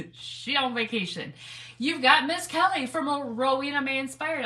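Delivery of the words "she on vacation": 1 laughing. Real, not acted.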